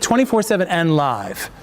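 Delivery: "twenty-four seven" and "live" each hit separately; stress on both terms. Shown as a demonstration. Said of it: "And just, just hit".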